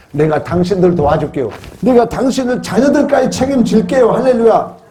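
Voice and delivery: from firm voice to high, loud cry; building triumphant promise. Retold or imitated. Joseph promising to care for his brothers, building to triumph. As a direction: build to a jubilant preaching peak.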